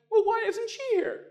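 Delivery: hammed-up forlorn wail; mock distress. Comedian retelling his lonely ultrasound, high hammed-up whine. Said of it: "and I'm like".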